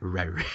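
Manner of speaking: small, low bear "rawr"; half-hearted roar. Retold or imitated. Bear not even charging, half-hearted little roar. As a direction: give a feeble little roar. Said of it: "he's not even charged".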